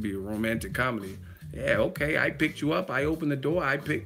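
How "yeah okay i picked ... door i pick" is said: mock Denzel yelling. Playing Denzel yelling at his date in a romcom, higher and faster. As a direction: build from aggrieved to angry. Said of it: "be yelling in movies".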